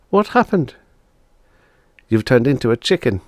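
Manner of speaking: put-on high kids' dialogue; children reacting to the transformation; child voices. Siblings after the pop, high kid voices.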